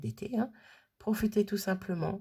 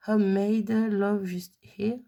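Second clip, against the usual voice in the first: French accent English; 2 semitones higher, 5 dB louder, slower than usual. Real, not acted. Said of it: "mon accent".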